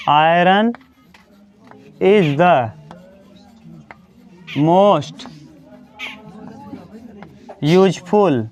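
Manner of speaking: each word set apart by long pauses; long gaps between words for writing; word-by-word dictation. Shown as a demonstration. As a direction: dictate one word at a time, waiting between them. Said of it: "example लिखो".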